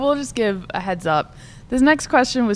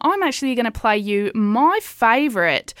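radio host. Acted.

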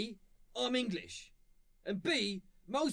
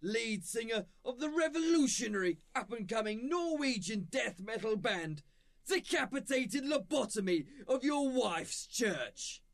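hyped TV host. Acted. Host opens the metal show, shouting over music. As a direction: pump up the metal show crowd.

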